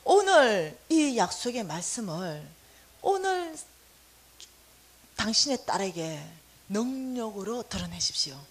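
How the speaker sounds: a touch of tearful earnest prayer; earnest pleading prayer. Retold or imitated. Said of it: "간절해지더라고요".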